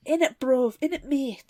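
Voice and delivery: lightly voiced roadman; a hint of laddish slang; mock London slang. Mocking the slang, lightly voiced.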